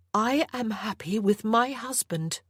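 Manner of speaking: a hint of a firm young mother; Anna, defiant. Anna answers her captor.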